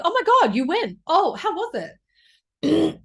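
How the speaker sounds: hammed-up fake enthusiasm; mock gushing friend. Flaky friends gushing after she went alone, mocked.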